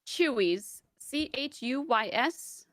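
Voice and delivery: "Chuy's" clearly, then C H U Y S letter by letter; spelled-out clarification. Shown as a demonstration. Clearing up a restaurant name for a friend, slow spelling. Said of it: "or are you saying Chuy's".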